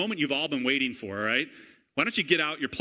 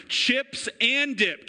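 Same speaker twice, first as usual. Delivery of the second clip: hyped call; 9 semitones higher, 4 dB louder, much slower than usual. Real, not acted. Hype call to congregation.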